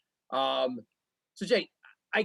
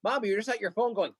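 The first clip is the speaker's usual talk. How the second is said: put-on child's voice; 4 semitones higher than usual. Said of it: "does an impression of my wife".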